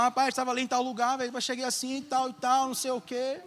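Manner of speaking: high, soft rambling dad; dad telling a story. Retold or imitated. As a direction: imitate dad's meandering anecdote. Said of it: "Parece meu pai contando história".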